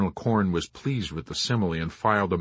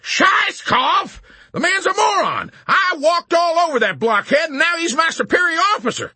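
very high, loud shrieking; appalled outburst; 7 dB louder than usual. A narrator's reading. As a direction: rant in horrified disbelief. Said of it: "struck by the enormity of the disaster".

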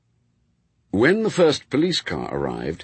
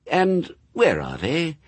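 a gently coaxing, sweet question; sweetly; 7 semitones higher, slower than usual. Acted. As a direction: coax the answer out kindly. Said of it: "said Aziraphale sweetly".

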